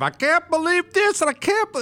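high squeaky mock outrage; mock disbelief. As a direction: whine it like a shocked worrier. Mocking outraged listeners.

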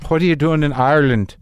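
put-on customs officer in an Irish accent. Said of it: "I can't do an Irish accent".

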